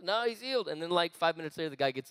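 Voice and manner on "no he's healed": slightly raised English-accent imitation. Healer answering the pastor, in an English accent. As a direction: brush off the alarm in an English accent. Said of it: "'Cause he had this English accent".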